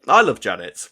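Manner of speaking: mock replay of the guest's line; imitating Alex. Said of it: "let's review that performance".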